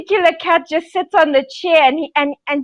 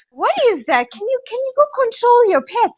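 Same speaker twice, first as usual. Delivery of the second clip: mildly exasperated dad, voice lifting higher; annoyed dad; 6 semitones higher than usual. Retold or imitated. Dad telling child to control the pets, mock annoyance. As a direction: imitate a dad demanding an explanation. Dad scolding about noisy cats.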